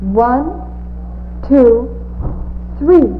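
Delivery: rising eager count; counting aloud. Shown as a demonstration. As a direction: build the count for the children. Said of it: "Let's count them now".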